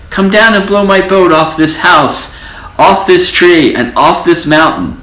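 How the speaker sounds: high squeaky mouse voice calling out; squeaky mouse pleading. A narrator's reading. Little mouse begging the wind to help. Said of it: "shouted the mouse".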